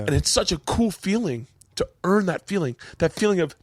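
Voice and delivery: high-pitched, overcome with feeling; moved, on the edge of crying; near tears. Real, not acted. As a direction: push through a tightening throat. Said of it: "I might actually cry".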